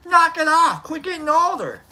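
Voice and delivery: playful high-pitched scolding; joking scold. Retold or imitated. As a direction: tease him to knock it off. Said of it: "I'm like".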